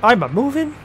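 high, loud mock-Italian question; terrible Italian accent. Stuck Luigi finds he is moving, terrible Italian accent. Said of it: "That's a terrible accent".

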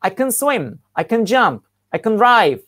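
"can" reduced to "kın" before the verb; weak "can". Shown as a demonstration. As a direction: say "can" as an unstressed "kın", leaning on the verb after it. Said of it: "olumlu cümlelerde can okunurken kın". ("can" sözcüğü "kın" diye zayıf okunur)

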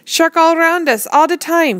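loud, high, slow roar; angry roar. A narrator's reading. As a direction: roar it out in fury. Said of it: "he roared".

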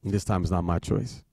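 usual speaking voice

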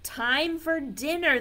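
lightly voiced mother calling out; mother tiger calling. A narrator's reading. Mother tiger calls her baby to dinner, lightly voiced call. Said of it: "the mother tiger calls".

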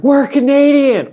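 very high, loud, stretched yell. Retold or imitated. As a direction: bellow it at the ship to get let on board. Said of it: "we were shouting at them".

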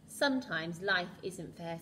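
slow, calm wise butler. Acted. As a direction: say it slowly like a wise old butler. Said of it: "said Jenkins wisely".

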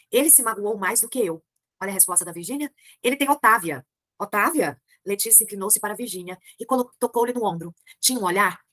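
reading a novel aloud to the class; measured literary narration; story reading. A narrator's reading. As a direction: read it like a storyteller. Teacher reads the novel aloud.

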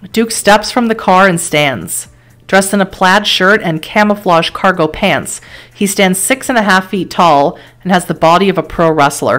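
measured dramatic game narration; story narration. A narrator's reading. Narrator setting a car crash scene for the player, story narration. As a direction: read it like a grim storyteller.

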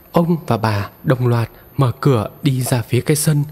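plain reading voice

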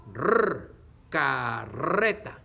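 slow "carreta" with a loud, long trill; R fuerte. Shown as a demonstration. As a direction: lean hard on the rolled rr of "carreta". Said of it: "Para que suene fuerte". ("carreta" lenta, con la erre fuerte y alargada)

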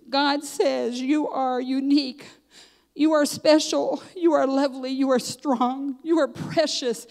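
slow, weighty affirmations; deliberate, measured proclamation from a scroll; emphatic reading aloud. Retold or imitated. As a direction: read each line slowly, as a declaration to treasure.

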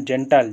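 "जेंटल" opening on a j sound; soft G word. Shown as a demonstration. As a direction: say "जेंटल" with soft G, as a teacher models it. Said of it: "पूरा pronunciation".

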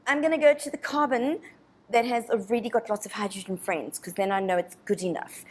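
lightly voiced snooty hydrogen; snobby voice. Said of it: "And it's a nice snobby voice".

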